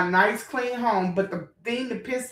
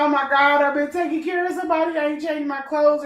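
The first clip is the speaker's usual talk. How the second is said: flustered rush; 5 semitones higher, faster than usual. Retold or imitated. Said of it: "I said".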